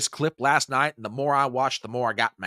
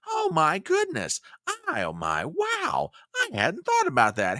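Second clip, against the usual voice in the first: much higher, fake gasp of wonder; mock astonishment; 5 semitones higher than usual. Host feigning shock at the president's corporate greed line. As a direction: pretend to be shocked.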